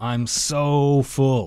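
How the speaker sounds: leaning hard on the word "so". Explaining the english word full, showing emphasis on so. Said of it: "你也可以强调那个so".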